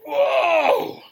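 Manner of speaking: huge high whoa of amazement; overwhelmed joyful yell; ecstatic shout. Retold or imitated. Baptized in the Holy Spirit.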